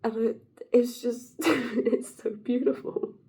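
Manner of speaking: breaking up with amusement; real laughter. Real, not acted. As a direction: try to talk through a fit of giggles. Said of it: "I need a laugh break".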